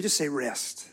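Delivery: calm prompt to the crowd; soft and low. Shown as a demonstration. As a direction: softly coax the word rest. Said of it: "say that word with me".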